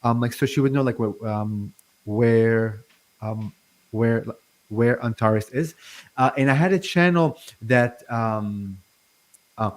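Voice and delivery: halting, repeated false starts; stuttering. Real, not acted. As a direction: stumble over the words. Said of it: "I'm really stuttering a lot".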